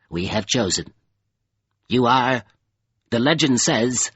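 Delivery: halting creature, losing its thread; faltering in confusion. A narrator's reading. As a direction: falter between phrases, unsure. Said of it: "it faltered in confusion".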